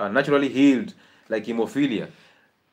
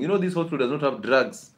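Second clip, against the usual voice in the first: complaining mother; 2 semitones higher than usual. Retold or imitated. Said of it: "she's actually saying".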